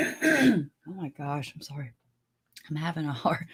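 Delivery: half-serious melodrama, voice sinking; mock dramatic. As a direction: play up the struggle, trailing away. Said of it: "I'm just being dramatic".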